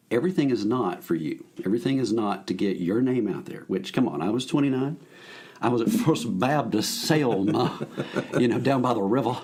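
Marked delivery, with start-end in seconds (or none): 5.6-7.9 Southern accent. Shown as a demonstration. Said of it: "that is how they talked down there".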